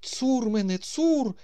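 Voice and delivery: exclamation like a famous opera bass. A narrator's reading. Old man on the porch cries out like Boris Godunov. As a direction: wail it like an opera bass gone shrill. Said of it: "вигукнув він з шаляпінськими інтонаціями в голосі".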